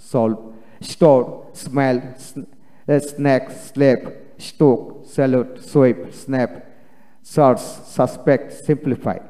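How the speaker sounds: word list, each like "সেলস" starting on a dental s; "স্টপ" and "স্মাইল" with initial s, not sh, set apart. Shown as a demonstration. Teacher showing learners word-initial S, "সাপ্লাই" said with dental s. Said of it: "এস এর উচ্চারণ দন্তাস্য".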